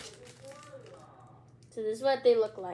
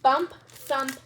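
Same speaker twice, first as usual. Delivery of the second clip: louder and higher, ghost yelped in fright; scared yelp; 5 semitones higher, 8 dB louder, much slower than usual. A narrator's reading. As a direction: yelp it like a startled kid. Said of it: "Judy yelped".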